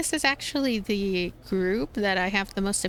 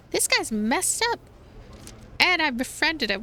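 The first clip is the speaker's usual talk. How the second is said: disbelief; 6 semitones higher than usual. Real, not acted. Streamer reacts to creepy iguana.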